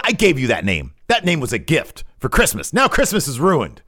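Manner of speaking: high, loud, aggrieved whine; hammed-up wounded rant; mock outrage. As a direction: wail that Christmas is ruined. The speaker rants over the doodled name.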